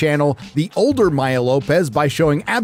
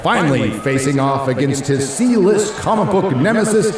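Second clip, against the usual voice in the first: ring announcer. Pretend. Boxing ring announcer intro.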